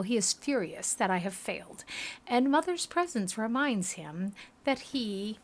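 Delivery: measured, dramatic storytelling read; story narration. Acted. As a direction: narrate a grim memory with lively intonation. Reads game story aloud.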